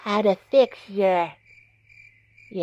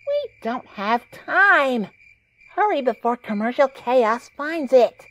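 1 urgent; 4 semitones higher, 5 dB louder than usual. Acted. Urging Marinette to hurry.

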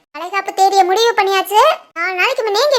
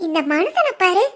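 amused giggle; 2 semitones lower, 5 dB quieter than usual. Acted. Wife alone, amused by husband.

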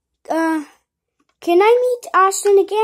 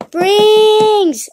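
long, loud call with a falling end; 3 semitones higher, 6 dB louder than usual. Acted. Kid calling after the character on camera, long loud call. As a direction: call the name across the yard.

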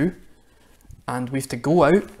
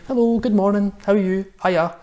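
cheery greeting; 5 semitones higher than usual. Shown as a demonstration. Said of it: "go by people and say".

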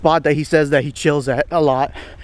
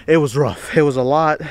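out of breath. Real, not acted. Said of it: "Sorry I'm a little out of breath".

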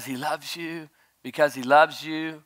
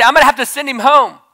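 heartbroken; 9 semitones higher, 12 dB louder than usual. Retold or imitated. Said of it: "and I say".

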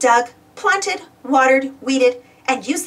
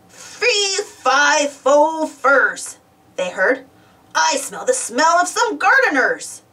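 giant voice; 6 semitones higher, much slower than usual. Acted. Giant approaching, chanting.

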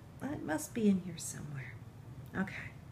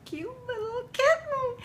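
rising, tearful coo; overcome with delight; 5 dB louder than usual. Real, not acted. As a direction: voice climbing into a high squeal. Moved to tears by toy kitten.

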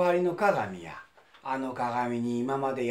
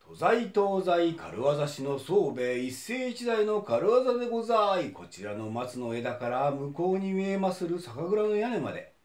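showman's patter; 4 semitones higher than usual. Acted. Acrobat announces his stunt.

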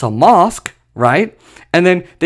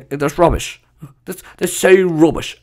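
put-on joking British accent. Joking Briton dismissing the fraud, British accent. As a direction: dismiss it as a mock Brit. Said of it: "I'm sorry for my British accent".

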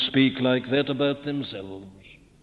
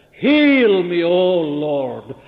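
louder, crying out to the Lord; loud pleading prayer; 6 dB louder than usual. Acted. Sinner crying out to the Lord for healing, loud plea. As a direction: call out for healing.

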